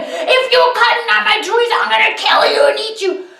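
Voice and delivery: high, loud mock troll roar; hammed-up monster threat. A narrator's reading. Troll threatens the boy chopping his trees, mock roar. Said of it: "screaming and roaring at him".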